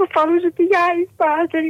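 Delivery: speaking through tears, crying. A caller on a radio program answers the priest, crying. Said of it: "Por que que você está chorando?".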